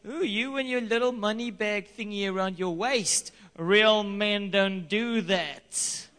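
lightly voiced mocking friend, slow on the last words; teasing friend. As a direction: tease him like a macho buddy, drawn out. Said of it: "He was like, / he was messing with me".

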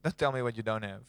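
calm and low, gently firm; voice of God. Retold or imitated. God answering Moses, low and quiet. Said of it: "God said".

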